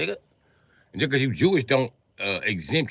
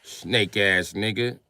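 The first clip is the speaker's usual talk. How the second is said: slow contempt; 2 semitones lower, much slower than usual. Real, not acted.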